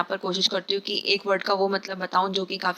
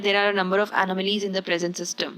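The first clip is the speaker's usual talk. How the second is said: very slow, deliberate reading; slow dictation pace; slow example read; 4 dB quieter, much slower than usual. Shown as a demonstration. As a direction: spell it out slowly for students. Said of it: "sentence में मैंने इसको ऐसे इस्तेमाल किया है".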